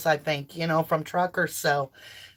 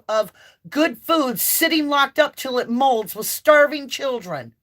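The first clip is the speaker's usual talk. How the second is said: yelling for truckers; 3 semitones higher than usual. Retold or imitated. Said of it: "I'm sorry I'm yelling".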